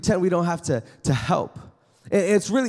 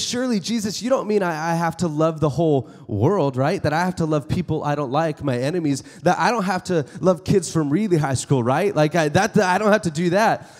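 pleading excuse-maker. Retold or imitated. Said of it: "He says".

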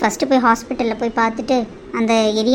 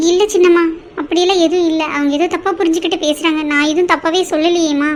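higher-pitched, flustered denial; anxious pleading; 4 semitones higher than usual. Acted. Maid placating the madam over spilt coffee, anxious pleading. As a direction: protest innocence in a raised pitch.

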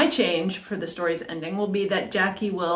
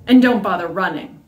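drawl; 6 dB louder than usual. Acted. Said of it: "drawled the girl".

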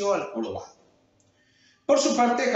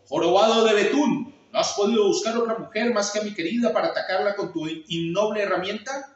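angry shout; 5 semitones higher than usual. Acted. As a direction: roar the accusation. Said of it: "el búfalo gritó".

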